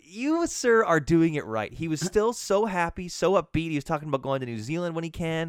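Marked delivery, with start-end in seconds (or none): 0.0-1.7 high, louder mock salute; a hammed-up tribute to a good customer; mock toast. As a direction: raise a glass to him. Praising the old customer.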